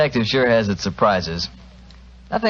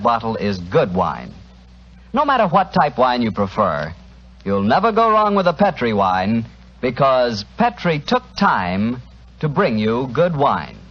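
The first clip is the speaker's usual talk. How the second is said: ad read. Acted. Radio host selling sponsor's wine to the doctor, smooth ad read. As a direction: sell the wine warmly, leaning on each word.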